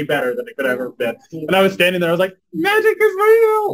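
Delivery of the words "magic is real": very high, slow, loud cry of wonder; awed exclaim. Retold or imitated. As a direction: marvel out loud at the moment. Wedding saved by hymn.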